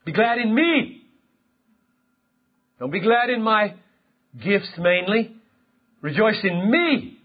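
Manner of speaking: a hint of a commanding God, landing high on "me"; self-exalting God. Preacher voices God commanding His people to rejoice, self-exalting. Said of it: "God talks that way".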